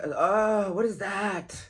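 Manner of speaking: loud, high burst of surprise; startled surprise. Real, not acted. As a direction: blurt it out, taken aback by the card. Startled reaction to a card.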